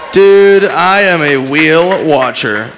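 excited dude. Real, not acted. Excited wheel watcher.

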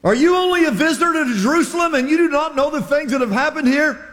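high and quick, incredulous; rapid disbelief. Acted. Cleopas to Jesus, fast high disbelief. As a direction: rattle it off in amazement.

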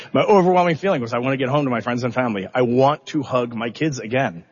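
pushing through the words so as not to cry; holding back tears. Real, not acted. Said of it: "I'm gonna try not to cry".

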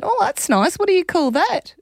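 very high, sweet-talking mum; retold cooing. Mum asking her three-year-old about sunglasses, retold cooing. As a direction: pitch it right up, as to a small child.

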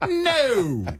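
high, sharp, instant no; a flat-out refusal snapped high; quick emphatic no. Retold or imitated. Answering the boss with a quick high no. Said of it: "just the quickest no".

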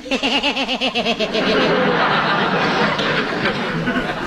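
hearty chuckle. Acted. Judge laughs at his joke.

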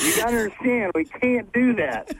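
playful Aussie accent impression. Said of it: "That's a pretty good Aussie accent you do".

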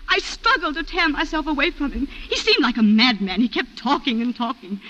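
ordinary talk

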